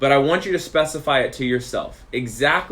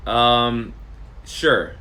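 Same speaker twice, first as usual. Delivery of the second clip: retold hesitant reply, pause after the um; hesitant answer. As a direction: imitate a halting, reluctant agreement. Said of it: "the way that you answered the first question".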